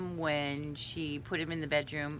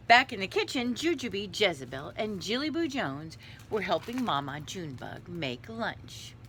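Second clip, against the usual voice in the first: story narration; 3 semitones higher than usual. A narrator's reading. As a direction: lively list of names, read aloud.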